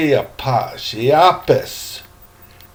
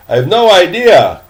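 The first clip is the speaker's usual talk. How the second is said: put-on a bit higher and louder, puzzled boy; corrected boy's voice; 4 semitones higher, 5 dB louder than usual. Teacher fixing Trey's voice while reading to class. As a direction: say it again as the boy, more clearly. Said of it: "I gotta get the voices right".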